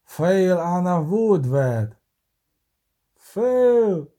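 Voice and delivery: slow call rising to a loud cry; shouted command. A narrator's reading. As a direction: draw it out, then cry the last word high. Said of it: "крикнув вершник".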